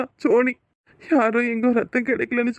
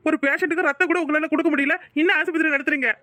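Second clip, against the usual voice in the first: raised, indignant complaint at the hospital; furious relative berating the hospital; angry scolding; 3 semitones higher than usual. Acted. Scolding hospital staff over blood.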